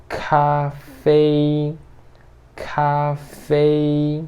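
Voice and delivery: "café" as Mandarin kafei, both syllables on a high level tone. Shown as a demonstration. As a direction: sing "café" on one high flat pitch. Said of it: "Café em chinês é".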